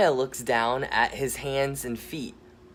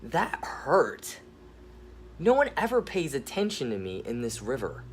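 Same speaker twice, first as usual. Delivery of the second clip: hurt rock voice; 4 semitones higher than usual. Acted. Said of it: "The rock began to talk".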